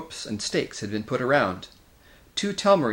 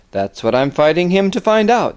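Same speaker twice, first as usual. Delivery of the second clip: firm declaration; 7 semitones higher, 10 dB louder than usual. A narrator's reading. Peter resolute before combat.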